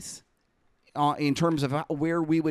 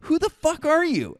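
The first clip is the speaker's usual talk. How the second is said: mock outraged yell, much higher; imitating an angry trader; 4 dB louder than usual. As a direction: play the furious trader, hammed up. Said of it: "he looks at me and he goes".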